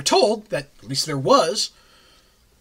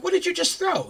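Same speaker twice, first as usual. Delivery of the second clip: startled shout. Retold or imitated. Party startled by the streaking throw.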